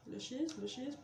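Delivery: trying for an English accent on Lashes, says it's bad; attempted English accent. Shown as a demonstration. Youtubeuse trying to say the mascara name in an English accent. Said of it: "Mon accent anglais est complètement pourri".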